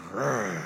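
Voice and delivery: short low growl; mock growl. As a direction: growl like a big brute. Mimes the huge farmer's bulk.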